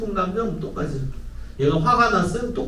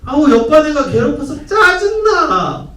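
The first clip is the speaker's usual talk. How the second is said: much higher, louder, slow whiny complaint; annoyed child; 11 semitones higher, 6 dB louder, slower than usual. Retold or imitated. Child complaining to mom about a classmate, whiny. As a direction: whine like a fed-up kid. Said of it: "엄마".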